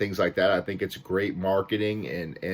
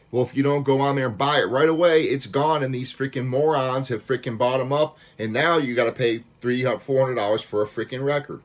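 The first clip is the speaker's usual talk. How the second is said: higher-pitched, worked-up rant; fired up; 4 semitones higher than usual. Real, not acted. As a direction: rant in real exasperation. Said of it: "I'm a little fired up about this".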